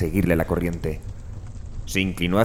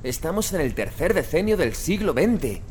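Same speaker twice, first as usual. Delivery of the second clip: urgent pleading; 9 semitones higher, 4 dB quieter than usual. Acted. Narrator pleading with Chalmers.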